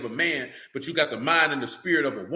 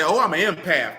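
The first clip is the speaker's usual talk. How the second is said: mocking quote; 4 dB louder than usual. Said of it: "I hate the term when people say".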